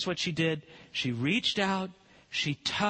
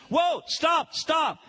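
calling out; 8 semitones higher, 3 dB louder, much slower than usual. Acted. Jesus calls the crowd to halt.

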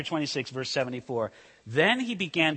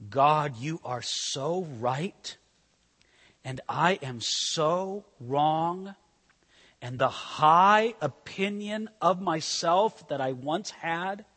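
humble prayer; slower than usual. Retold or imitated. Preacher voicing a broken believer praying to God, slow and humble. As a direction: confess slowly, humbled.

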